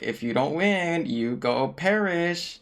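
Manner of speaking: slow, drawn-out host's warning; lightly voiced game show host. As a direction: stretch out the threat like a host. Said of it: "they get on the game show".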